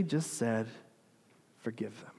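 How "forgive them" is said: hushed, low and gentle; quiet forgiveness. Retold or imitated. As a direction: drop to a soft, merciful near-murmur. Jesus simply forgives the crowd.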